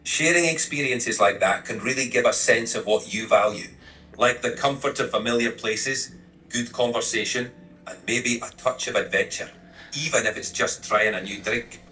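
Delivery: conversational, with a put-on Scottish lilt; Lowland Scottish accent. Assistant responding to the hot toddy story, Lowland Scottish accent. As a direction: keep up a light Scottish accent. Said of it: "I'll keep the Lowland Scottish accent going".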